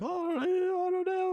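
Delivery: high, slow dopey voice; clueless tourist mimicry; mimicking a dopey reply. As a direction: whine it out dimly. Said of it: "And they're like".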